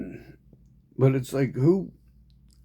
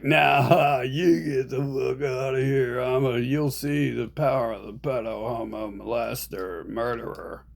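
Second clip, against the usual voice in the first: mock taunting villain. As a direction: gloat and jeer like a cartoon bully. Voicing the invaders taunting natives.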